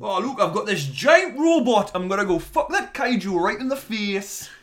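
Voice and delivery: mock macho hero. Mocking Charlie Hunnam's Pacific Rim role, hammed-up macho brag. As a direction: ham up a dumb action-hero brag.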